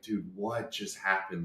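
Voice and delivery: low, hushed, slow bewilderment; dazed muttering. Retold or imitated. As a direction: mutter it slowly, still processing. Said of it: "I'm still just, like, pacing".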